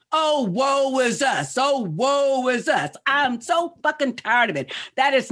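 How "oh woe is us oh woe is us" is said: mocking lament.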